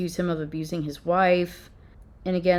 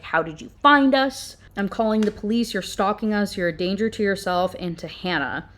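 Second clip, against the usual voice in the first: angry man. Retold or imitated. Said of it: "he is obviously super angry".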